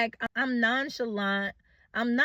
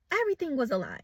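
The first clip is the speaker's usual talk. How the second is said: quiet repeat; 3 semitones higher, 6 dB quieter, much faster than usual. Real, not acted.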